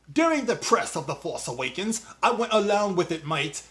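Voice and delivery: loose mock British accent, quoting Boyega; a hint of London 'mate' British accent; put-on British accent. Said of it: "I don't know what accent I'm doing now".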